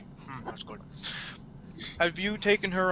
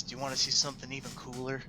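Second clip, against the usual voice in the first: lean-in hush; 4 semitones lower, 10 dB quieter, faster than usual. Acted. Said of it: "he leans in and says".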